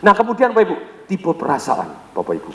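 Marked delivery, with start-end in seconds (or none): 1.1-2.5 much lower, slow and heavy. Shown as a demonstration. Trainer demoing the feeling type, slow low heavy voice. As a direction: drop low and take your time. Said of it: "dia ngomongnya berat, nadanya rendah".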